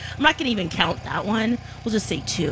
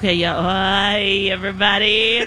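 voice shaken by massage gun; 3 semitones lower than usual. Real, not acted. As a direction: talk while a massage gun buzzes the shoulder. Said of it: "So Alexis, say something".

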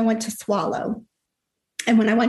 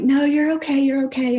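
higher-pitched retold reassurance; insistent reassurance; 4 semitones higher than usual. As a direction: lightly act out a son's urgent reassuring. Son reassures struggling parent.

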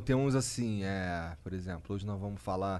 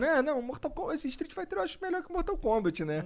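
imitating Jean; 12 semitones higher, 4 dB quieter than usual. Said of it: "o Jean".

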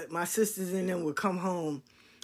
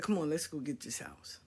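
whisper; 5 semitones lower, 9 dB quieter than usual. Retold or imitated. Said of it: "he said".

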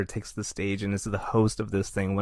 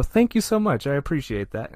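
overly polite thanks; 4 semitones higher than usual. Retold or imitated. Acting like he belonged there.

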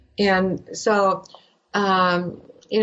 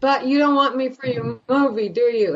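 higher-pitched protest without real volume; retold scream; 5 semitones higher than usual. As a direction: plead it in a raised pitch, imitating a scream. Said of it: "and I screamed".

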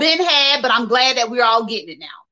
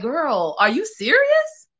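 mock disbelief; 3 semitones higher, slower than usual. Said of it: "it's like".

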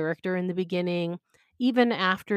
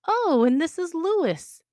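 much higher, slow and delighted; bright; 11 semitones higher, 5 dB louder, slower than usual. Acted. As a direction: introduce him like the most exciting person alive. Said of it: "Niall says brightly".

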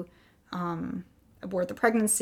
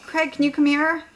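raised, higher voice calling someone over; 7 semitones higher, 7 dB louder than usual. Retold or imitated. Wife summoning husband from upstairs, calling down. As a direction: imitate a call down the stairs. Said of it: "I call down to Craig".

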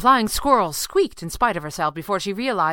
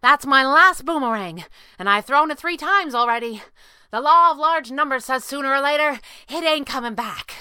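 high, raised voice over the din; ringing shout; 8 semitones higher, 5 dB louder than usual. A narrator's reading. Squirrel warning her boss mid-battle, ringing shout. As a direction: shout an urgent warning across a fight. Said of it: "squirrel's voice rang out over the din".

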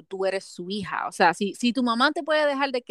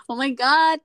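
gasping oh my God; 3 semitones higher, 5 dB louder, slower than usual. Real, not acted. Gasps reading spoilers.

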